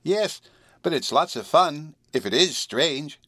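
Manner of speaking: high, slow little kitten voice; small kitten voice. A narrator's reading. Kitten answering the astonished girl in a small voice. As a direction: speak as a small, high-pitched cat. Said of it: "the small voice of the kitten".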